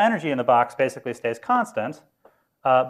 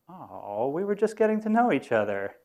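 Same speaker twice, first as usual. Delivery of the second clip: pitched up, plaintive whine of the stranded man; lonely Odessa man; 5 semitones higher, 3 dB quieter than usual. Acted. Odessa man left alone on the island, plaintive higher whine. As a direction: sigh it out like the friendless guy left behind.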